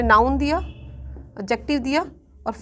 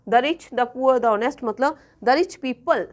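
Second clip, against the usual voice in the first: very slow, each word spaced out; slow teacher dictation; much slower than usual. Shown as a demonstration. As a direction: spell it out slowly for the class. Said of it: "slow teaching dictation".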